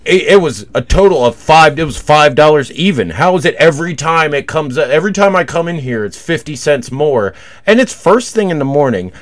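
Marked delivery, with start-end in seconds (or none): 0.0-7.3 mock indignant crackhead, half laughing; a hammed-up whine about the price; imitating a whiny complaint. Retelling the crackhead complaining to the clerk, mock whine. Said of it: "he started bitching at the fucking clerk".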